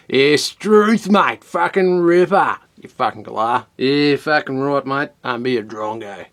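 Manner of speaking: hammed-up Ocker Australian slang showpiece; broad Ocker accent. Shown as a demonstration. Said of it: "in my most Ocker fucking accent".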